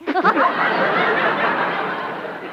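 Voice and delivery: a hint of a fluttery, giddy society lady; scatterbrained lady. The speaker gushes to Eddie, lightly voiced giddy lady. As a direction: play it dizzy and delighted. Billie Burke's scatterbrained persona.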